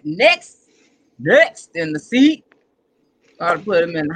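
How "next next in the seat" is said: louder host call, rising at the end. Acted. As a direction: call the next guest up like an emcee. Host calling up next guest.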